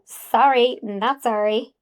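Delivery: sassy and dismissive. Acted. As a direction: brush them off with sass. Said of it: "God, I'm so sassy".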